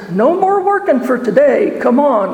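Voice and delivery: excited call. Acted. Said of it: "Penny yelled out".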